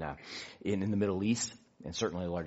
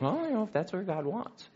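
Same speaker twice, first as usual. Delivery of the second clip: imitated wife; 10 semitones higher than usual. Imitates wife's easygoing reply.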